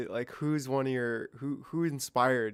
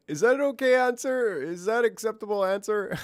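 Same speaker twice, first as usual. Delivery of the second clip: higher-pitched, unsure pleading question; mock second-guessing, pitched up; capitulating; 7 semitones higher than usual. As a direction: imitate someone backing down and seeking approval. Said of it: "kinda capitulating".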